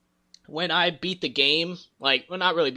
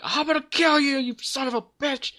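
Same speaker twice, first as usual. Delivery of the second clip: high-pitched mock furious threat; an enraged outburst imitated in a strained high voice; Kenny; 12 semitones higher than usual. Retelling a game character's death threat, mock furious.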